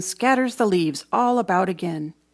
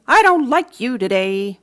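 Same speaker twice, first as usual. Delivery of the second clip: louder, pouting complaint; sulky call; 3 semitones higher, 6 dB louder than usual. Acted. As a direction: tell the wind off with a pout. Child scolding wind.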